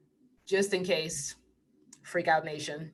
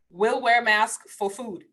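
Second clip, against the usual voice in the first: laughing aside; slower than usual. Real, not acted.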